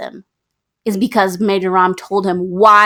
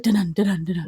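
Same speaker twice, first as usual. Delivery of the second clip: dramatic sting; 2 semitones lower, 8 dB quieter, faster than usual. Retold or imitated. Voices a dramatic sting after gasp.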